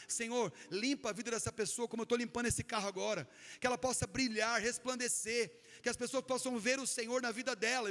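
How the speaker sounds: lightly voiced prayer of declaration; declared prayer. Preacher reenacts praying while washing the car, lightly fervent. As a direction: pray it over the car like a blessing.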